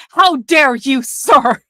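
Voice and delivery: prissy mock offense, lightly voiced; a hint of a scandalized gentleman; mock pearl-clutching. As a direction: clutch your pearls in a half-hearted mock. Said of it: "they're like".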